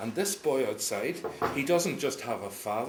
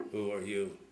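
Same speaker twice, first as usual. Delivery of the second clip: tiny little voice; 4 semitones lower than usual. A narrator's reading. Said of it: "in a little tiny voice".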